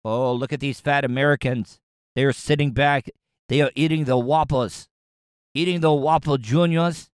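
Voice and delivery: badly faked Chinese accent, drifting toward French. Shown as a demonstration. Host imitates China laughing at fat Americans, bad Chinese accent. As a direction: attempt a clumsy mock Chinese accent. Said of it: "a Chinese accent".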